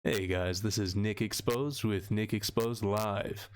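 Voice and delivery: slow, drawn-out radio host intro; radio talk show voice. Pretend. Livestreamer playfully opening his show like radio, talk show host voice. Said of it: "a radio producer voice, like, talk show".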